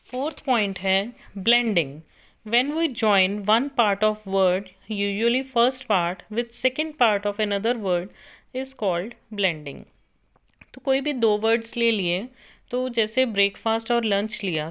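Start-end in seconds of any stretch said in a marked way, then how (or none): 2.5-9.8 slow, deliberate dictation for note-taking. Acted. Teacher dictating a definition to students, slow and measured. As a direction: spell out each word so students can copy.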